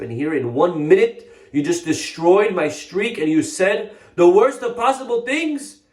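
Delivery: rising indignation. Acted. Rabbi rebukes companion over gossip.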